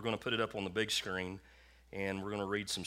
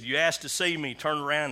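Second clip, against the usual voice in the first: loud, raised voice of God; big booming voice; 6 semitones higher, 8 dB louder than usual. Retold or imitated. God repeats his command to the man, big booming voice. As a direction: boom out the command, imitating God. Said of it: "he said he did it again".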